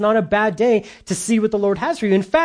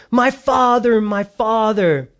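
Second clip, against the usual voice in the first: crying out; 4 semitones higher, slower than usual. Acted. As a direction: call out the name, then stretch the second one. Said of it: "And he cried out".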